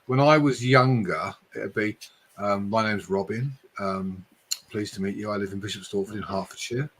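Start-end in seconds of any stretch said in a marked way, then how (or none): 2.7-6.9 posh Hertfordshire. Retold or imitated. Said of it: "so I'd talk like that".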